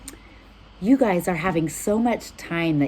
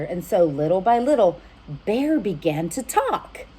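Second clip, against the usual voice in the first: put-on lively read-aloud for children; storybook reading. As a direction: read it warmly to little listeners. Reads storybook aloud to kids.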